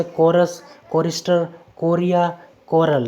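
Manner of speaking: कोरस, कोरिस्टर, कोरिया, कोरल each begun with a hard k. Shown as a demonstration. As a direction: read कोरस to कोरल as separate words starting on k. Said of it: "सीएच का उच्चारण होगा क". (कोरस से कोरल तक हर शब्द क से, अलग-अलग)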